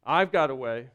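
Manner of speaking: voicing God. Pastor voicing God promising a new heart. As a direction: rise into a firm promise. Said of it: "And God says".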